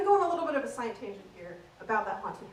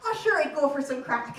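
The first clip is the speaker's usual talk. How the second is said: put-on breezy Irish-accented reply; 4 dB louder than usual. Comic showing off the Irish word for fun, in Irish accent. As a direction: accept like an Irish pub-goer. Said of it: "the Irish word for fun is".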